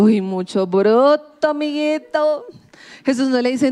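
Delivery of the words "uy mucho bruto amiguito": slow, drawn-out mock insult; a lightly voiced mean teaser; mocking scorn. Jesus imagined scolding Peter, mock scornful. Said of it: "Jesús no dice como".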